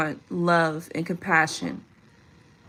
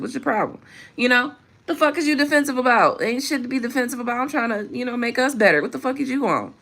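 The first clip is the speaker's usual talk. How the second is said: higher, heated exasperation at defensive men; exasperated rant; 3 semitones higher, faster than usual. Real, not acted. Ranting at men who get defensive, exasperated and heated. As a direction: vent it, baffled and fed up.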